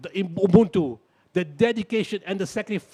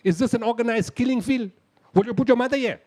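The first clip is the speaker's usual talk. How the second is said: outraged challenge; 6 semitones higher, 3 dB louder than usual. Retold or imitated.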